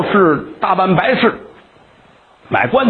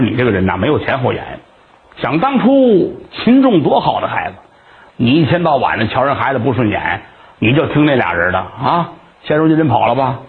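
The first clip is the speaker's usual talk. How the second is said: lower-voiced neighbor giving him a telling-off; scolding neighbor; 6 semitones lower than usual. Neighbor scolding the old man for trusting them, low reproach.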